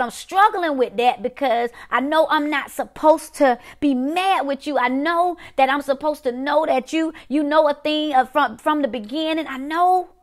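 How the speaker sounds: imitating a struggling believer's anguished complaint, high and insistent; high-pitched, wrestling protest that builds toward the end; pained, angry protest. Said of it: "And you angry. You're saying".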